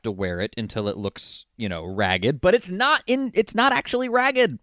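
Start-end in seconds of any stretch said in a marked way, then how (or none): 2.4-4.6 high, pushy salesman pitch; pitchman voice. Acted. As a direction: sell it like a TV pitchman. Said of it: "the pitchman voice".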